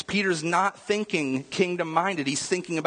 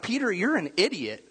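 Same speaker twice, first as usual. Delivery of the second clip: frustrated rant; 3 semitones higher than usual. Retold or imitated. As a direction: scold a student who never learns. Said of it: "I would be really frustrated".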